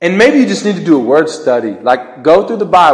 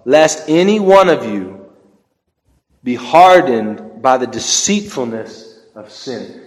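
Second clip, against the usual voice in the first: slow, deliberate scripture reading; slow like a snail; 5 semitones lower than usual. Shown as a demonstration. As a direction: draw each word out slowly. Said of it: "it is so hard for me to talk slow".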